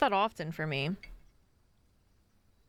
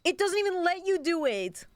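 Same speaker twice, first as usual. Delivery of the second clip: frustrated shout; 10 semitones higher than usual. Real, not acted. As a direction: shout at the game in disbelief. Game blocks move, frustrated shout.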